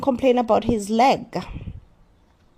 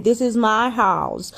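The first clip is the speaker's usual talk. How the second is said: mock complaining husband. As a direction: imitate a husband lording it over his wife. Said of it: "all he does is to just complain".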